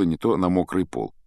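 ordinary delivery

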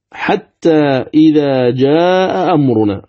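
"جاء أمرنا" recited slowly with the hamzas clear; slow recitation. Shown as a demonstration. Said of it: "أيضًا مثاله".

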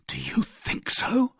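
high, slow, doubtful question; sceptical, drawn-out query; little convinced. A narrator's reading. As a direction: lift it high and let it rise in doubt. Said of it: "but little convinced".

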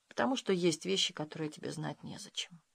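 quiet, closed-off answer; soft refusal. A narrator's reading. Woman refuses to tell her fiancé, quietly closed off. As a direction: shut the subject down softly.

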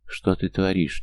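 ordinary delivery, nothing marked

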